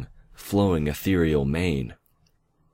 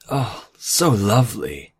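higher, slow, delighted lilt; happy chirp; 5 semitones higher, 3 dB louder than usual. A narrator's reading. Nightmare admiring her restored mane, delighted chirp. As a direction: chirp it, savouring the words. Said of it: "she chirped".

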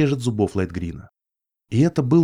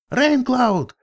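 much higher, frantic yell; yelling a name; 13 semitones higher than usual. Acted. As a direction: scream his name in a panic. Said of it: "завопил единорог".

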